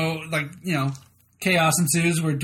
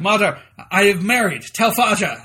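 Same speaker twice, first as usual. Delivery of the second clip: mock German accent, a bit louder; 3 semitones higher, 5 dB louder than usual. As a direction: put on a hammy German accent. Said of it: "does this mock German accent".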